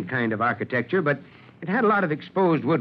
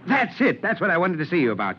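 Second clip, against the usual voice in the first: high, quick burst of remembering; sudden recollection; 5 semitones higher than usual. Acted. Chief suddenly recalls why he sent, excited. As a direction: blurt it out as it dawns.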